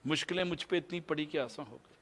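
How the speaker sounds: quiet reflective repeat of the verse; soft echo. Shown as a demonstration. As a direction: let it fall away to a near hush. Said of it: "repeats the verse line twice".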